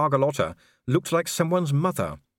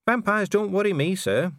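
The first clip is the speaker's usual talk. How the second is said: put-on higher young dwarf voice, eager; a keen, higher young voice; Cheery; 8 semitones higher than usual. Cheery answers Vimes.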